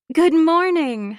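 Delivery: morning greeting. Acted. Housemate greets the narrator from behind, drawn-out and high. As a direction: stretch out a lilting hello.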